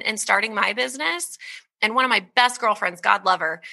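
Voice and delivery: usual speaking voice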